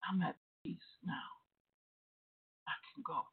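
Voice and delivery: hushed, nearly whispered imitation of a spirit; imitating a faint, peaceful little voice; small voice. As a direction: let it out softly, barely voiced. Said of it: "all voice said".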